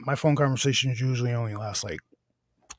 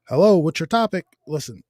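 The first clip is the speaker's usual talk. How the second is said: louder, higher impatient DJ; pushy radio host; 4 semitones higher, 6 dB louder than usual. Retold or imitated. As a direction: press the silent caller like an annoyed host. Fake host gets pushy.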